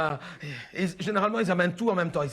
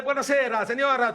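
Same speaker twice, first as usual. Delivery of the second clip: mock Italian; 3 semitones higher than usual. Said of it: "quand ils font, eh".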